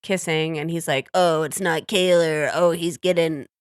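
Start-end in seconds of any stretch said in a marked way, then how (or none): 1.1-3.5 imitated glee. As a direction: savour it, imitating a gleeful onlooker. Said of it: "like, with such joy".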